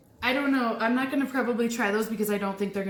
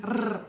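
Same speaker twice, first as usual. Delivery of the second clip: rolled R trill; 3 semitones lower, 4 dB quieter than usual. Shown as a demonstration. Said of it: "I'm gonna roll my R".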